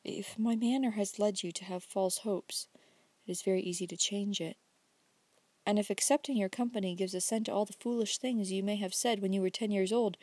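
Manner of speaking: slow, quiet, near-whispered reply; slowly. Acted. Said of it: "as she answered slowly".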